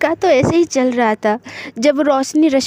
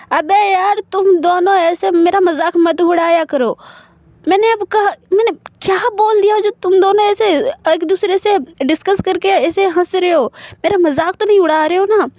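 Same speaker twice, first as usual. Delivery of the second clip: hurt complaint; 6 semitones higher than usual. Acted. Friend complains they mock him.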